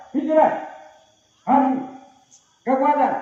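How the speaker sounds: game leader calls out the commands; called commands. Real, not acted. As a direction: bark each command to the group.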